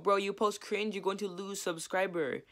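high, mocking meme-guy voice; a meme voice scolding a cringe poster. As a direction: quote the cringe meme in a squeaky put-on voice. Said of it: "that meme's so great".

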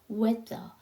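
"weather" opening on a blended weh, like Korean 웨; blended W vowel. Shown as a demonstration. Teacher joining w and vowel for learners, pronunciation demo. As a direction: model "weather" slowly, w merged into the eh. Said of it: "합쳐서 외가 될 거예요".

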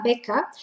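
beca with a long open E. Shown as a demonstration. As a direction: draw out the E in beca. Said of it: "como una E larga". (la E larga de beca)

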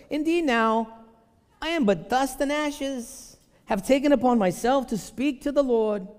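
put-on high, slow, drawn-out Jewish accent. Preacher voices Abraham haggling with God, hammed-up Jewish accent. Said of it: "I need to get my Jewishness on right now".

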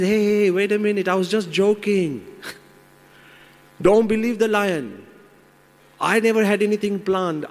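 high, quick, desperate begging; frantic pleading. Acted. Man dangling above the lion, pleading frantically for his life. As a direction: talk your way out in a panic. Man begs the monkey for mercy.

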